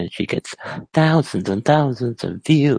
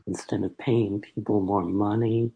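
mumbling; 4 dB quieter than usual. Real, not acted. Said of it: "Why are you just mumbling?".

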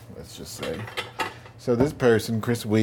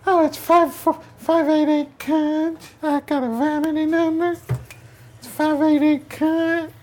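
put-on very high, loud New York accent, slow on the numbers; 5 dB louder than usual. Friend giving out his phone number, very high New York accent. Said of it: "very strange and extremely high New York accent".

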